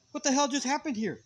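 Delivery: high, loud retold astonishment; stunned disbelief. Storyteller recalling the aftermath of the fight, stunned. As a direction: act out being baffled by what just happened. Retells his own stunned reaction.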